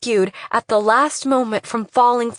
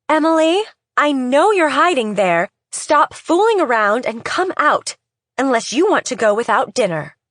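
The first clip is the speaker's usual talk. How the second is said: mother calling out; 5 semitones higher, 3 dB louder than usual. Acted. Mother calls out to hiding daughter.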